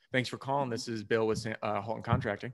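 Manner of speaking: composed, businesslike phone pick-up; assertive phone greeting. Shown as a demonstration. Contractor answering an unknown caller, assertive and controlled. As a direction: answer with measured authority, understated. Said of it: "answer it with an assertive voice".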